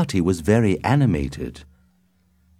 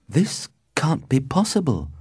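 disbelief; 9 semitones higher than usual. A narrator's reading. Romeo learns his love's family.

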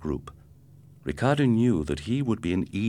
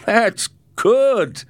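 amused; 9 dB louder than usual. Acted. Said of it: "he began to laugh".

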